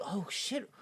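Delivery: squeaky high mock Ernest, quiet start. Friend quotes Ernest meeting Catwoman, squeaky mock voice. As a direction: play it as a dopey impression. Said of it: "He's like".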